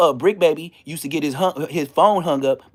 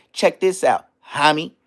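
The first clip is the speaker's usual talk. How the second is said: taunting demo; slower than usual. Shown as a demonstration. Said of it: "that's when you hit a nigga like this".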